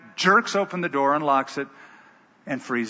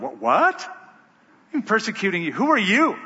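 rising, incredulous "What? What?"; startled disbelief; 4 semitones higher than usual. Acted. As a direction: caught off guard, demanding who it is. Startled Saul questions the voice.

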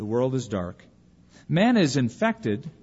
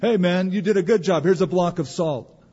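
mock paymaster; 3 semitones higher, 4 dB louder than usual. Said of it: "doesn't sound like an attractive paycheck".

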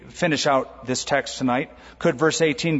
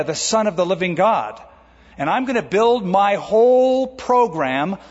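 full-force preaching; 4 semitones higher than usual. Acted. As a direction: preach it out to the whole room. Preaching Jesus' words at full force.

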